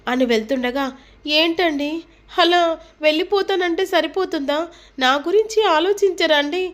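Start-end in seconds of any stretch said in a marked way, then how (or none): 1.4-6.6 higher, pleading and hurt; pleading wife. A narrator's reading. Wife pleading with her leaving husband, high and hurt. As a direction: beg him not to walk out on you.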